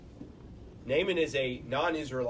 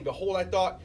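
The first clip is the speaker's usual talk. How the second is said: reading rises higher and louder as Naaman's anger grows; scripture read with mounting indignation; building indignant read; 6 semitones higher, 4 dB louder than usual. Acted. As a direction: climb into Naaman's outrage, higher and louder with each phrase. Reading Naaman's angry words aloud.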